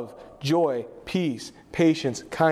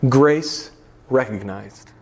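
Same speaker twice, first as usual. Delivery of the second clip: slow, louder and deeper; slow solemn emphasis; 5 semitones lower, 5 dB louder, much slower than usual. Shown as a demonstration. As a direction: weigh each word for the congregation.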